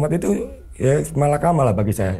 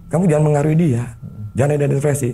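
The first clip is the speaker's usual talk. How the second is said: mildly angry, higher-pitched telling-off; retold angry rebuke; 4 semitones higher than usual. Speaker tells Kowa not to influence her, retold anger. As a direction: retell a scolding with raised pitch. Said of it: "Saya langsung marah ke Kowa".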